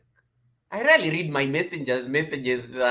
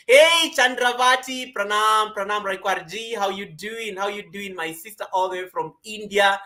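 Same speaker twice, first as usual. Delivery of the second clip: excited greeting; 5 semitones higher, 4 dB louder than usual. Real, not acted. Streamer greeting a sister viewer from India, excited. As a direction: welcome her warmly from afar.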